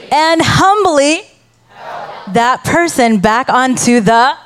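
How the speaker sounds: slow scripture reading, hanging on "should" and "humbly"; pausing for fill-ins. Shown as a demonstration. Pastor has the congregation fill in blanks, pausing expectantly. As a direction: leave gaps after phrases for listeners to finish. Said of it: "So when I pause".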